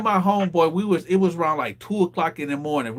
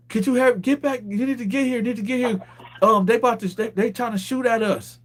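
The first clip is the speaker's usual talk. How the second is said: retold urgent call, pitched much higher; urgent plea; 6 semitones higher than usual. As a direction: imitate a pleading caller, high-pitched. Retelling a girl's urgent call.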